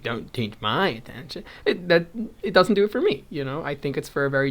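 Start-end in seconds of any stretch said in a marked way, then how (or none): 0.0-1.4 mock-haughty, leaning on "my". Crafter mocking how her remark could sound, haughty. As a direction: play it snooty, with a lift on "my". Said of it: "in a haughty way, like".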